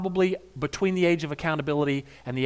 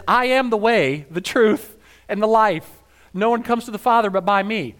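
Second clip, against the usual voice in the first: solemn declaration; 5 semitones higher, 5 dB louder than usual. Acted. Jesus declares to Thomas.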